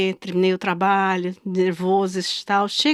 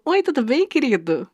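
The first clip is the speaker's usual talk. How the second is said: fake sweet; 4 semitones higher than usual. Sweet fake greeting to seller.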